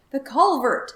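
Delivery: high, loud triumphant shout; yelling. Acted. Farmer yelling at the culvert, loud and high. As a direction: shout it as if he found it. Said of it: "yelled Mister Wagon Wheel".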